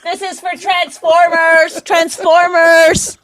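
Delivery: hammed-up overexcited man at the movies; mock excited yell. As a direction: ham up a husband thrilled by a trailer. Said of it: "He's like".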